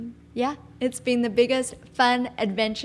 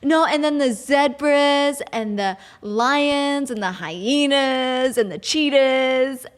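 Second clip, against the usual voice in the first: mock eager listing; 3 semitones higher, 4 dB louder, slower than usual. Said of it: "they're like".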